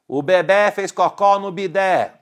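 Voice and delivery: put-on high, insistent repeat of the baby news; hammed-up alarmed announcement; acted urgent calling. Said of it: "alguém corre dizendo assim".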